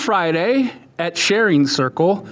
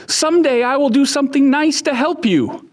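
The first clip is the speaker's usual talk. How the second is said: little mouse voice; 8 semitones higher, faster than usual. Acted.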